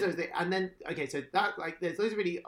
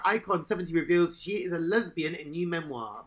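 headline read; 3 semitones higher, 5 dB louder than usual. Shown as a demonstration. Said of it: "a Daily Mail headline I just read out".

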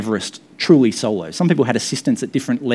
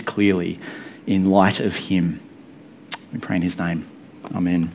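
spoken prayer. Real, not acted. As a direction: lead the room in prayer. Leads the congregation in prayer.

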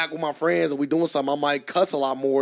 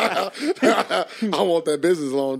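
slow, laughing mock plea; laughing through it; much slower than usual. Pretending to ask the bank for a loan, slow and laughing. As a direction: stretch it out slowly through laughter.

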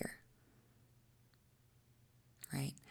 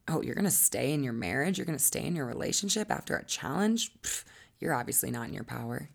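mock judgment. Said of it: "it's the new shame to stay".

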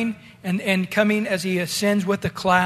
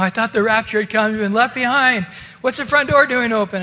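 freaking out; 3 semitones higher than usual. Retold or imitated. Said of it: "he's freaking out going".

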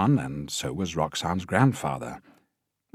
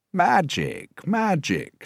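much higher, flustered exclamation; flustered director; 13 semitones higher, 4 dB louder, much slower than usual. A narrator's reading. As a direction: splutter it in delight. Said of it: "a bit flustered now".

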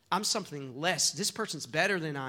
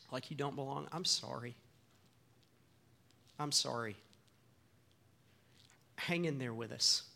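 sincere apology; 5 dB quieter than usual. Real, not acted. Apologizing to hurt listeners.

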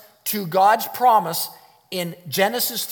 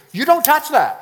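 loud; 9 semitones higher, 7 dB louder than usual. Pretend. Eve's warning voiced loudly.

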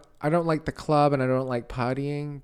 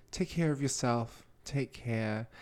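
mock condescending; 3 semitones lower, 7 dB quieter, slower than usual. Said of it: "It's condescending".

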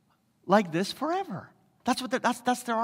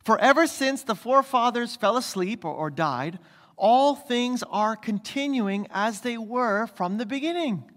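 lightly mocking scoffer's taunt; sarcastic; 3 semitones higher than usual. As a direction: sneer the question at believers. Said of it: "You can hear the sarcasm".

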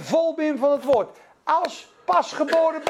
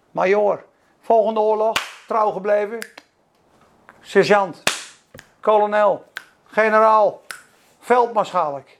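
calling out ranks; 4 semitones lower, 3 dB louder than usual. Acted. Ranks called out rising.

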